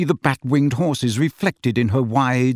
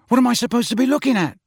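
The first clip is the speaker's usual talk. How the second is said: puzzled Ron voice; 10 semitones higher, much faster than usual. Acted.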